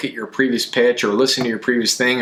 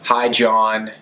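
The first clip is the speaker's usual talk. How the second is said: answering machine message; slower than usual. Shown as a demonstration. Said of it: "here's what's not engaging".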